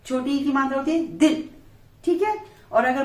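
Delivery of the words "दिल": दिल with a short clipped i. Shown as a demonstration. Teacher demonstrating दिल with a short i. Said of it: "झटके से बोलना है".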